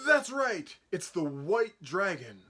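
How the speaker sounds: high gasping reveal, then slow; excited gasp reveal. Acted. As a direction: gasp and reveal the answer slowly.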